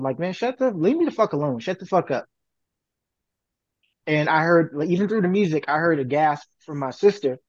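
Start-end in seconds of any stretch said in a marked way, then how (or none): 0.2-2.2 higher, irritated brush-off retold; imitating a teen telling someone off; mock annoyed snap. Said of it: "something along the lines of".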